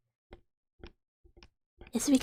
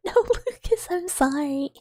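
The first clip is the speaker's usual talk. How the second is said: much higher, laughing denial; squeaky protest; 5 semitones higher than usual. Real, not acted. Streamer denies being scared to Lucas, squeaky protest. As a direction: caught out and squealing no.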